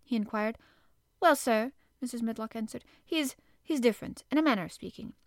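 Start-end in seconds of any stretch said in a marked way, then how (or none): 1.2-1.7 higher, louder flustered housekeeper; flustered housekeeper answering her master. Acted. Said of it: "somewhat excited and curious and flustered". 3.0-5.1 flustered housekeeper. Acted. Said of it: "somewhat excited and curious and flustered".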